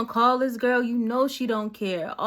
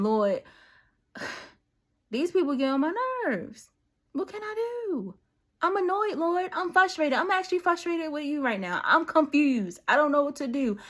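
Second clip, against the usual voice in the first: casual venting prayer; 5 semitones higher than usual. Shown as a demonstration. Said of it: "That's how I talk to him".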